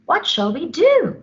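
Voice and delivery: high anxious cry; worried George. Acted. George despairing at baby vulture. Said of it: "said George".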